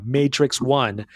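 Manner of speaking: "Matrix One" said slowly and deliberately, each word drawn out; clarifying "Matrix One" slowly for podcast listeners; slow, spelled out. Shown as a demonstration. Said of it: "You're not looking at me right now".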